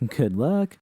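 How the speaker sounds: a laugh then a light good luck; laughing goodbye. Acted. V wishing Judy luck, laughing. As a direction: send her off with a chuckle. V waves her off.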